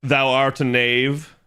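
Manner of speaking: slow, lightly mock old-English insult; a hint of a medieval knight; medieval speech. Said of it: "talking like a medieval person".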